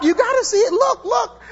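very high-pitched neighbor impression; put-on high voice urging someone to watch; Laurie. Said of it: "That's how she talks".

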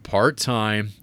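flat, dull line reading; imitating Harrison Ford. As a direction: read it like you're bored. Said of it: "his reading of the line".

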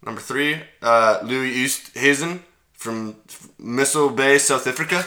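put-on light South African accent on the name. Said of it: "that I could do a South African accent".

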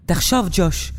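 high-pitched sister begging; pleading. A narrator's reading. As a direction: implore your brother to think. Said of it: "אבלין התחננה".

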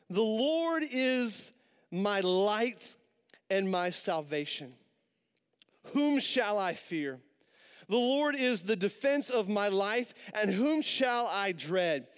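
slow, measured reading of a psalm; scripture reading. Acted. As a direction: read each line slowly and solemnly. Reads Psalm twenty-seven aloud.

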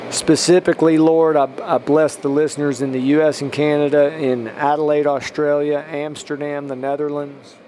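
measured blessing in an even tone; spoken prayer. Real, not acted. Podcast preacher blessing listeners country by country, prayerful. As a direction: pray down a list of places, evenly.

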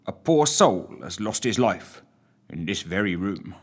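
a hint of a brisk officer; commanding detective. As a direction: lay out the facts with authority. Quentin voiced taking charge.

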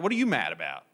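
family member asking. Retold or imitated. Family asking if he's mad.

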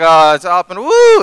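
high, loud rising whoop; cheering crowd. Retold or imitated. Crowd cheering as Moses lifts the staff, loud high whoop.

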